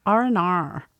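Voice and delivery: "R and R" run together quickly like "oh no"; fast RnR demo. Shown as a demonstration. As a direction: rush "R and R" into two quick syllables. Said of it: "So say it fast".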